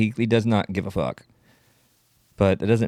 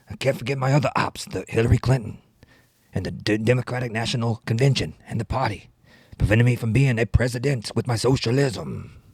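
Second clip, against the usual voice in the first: lightly voiced rapping senator; Bernie Sanders. Rapping politician airing grudges, light impression. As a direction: put on a grumbling politician's accent. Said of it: "rapping Bernie Sanders".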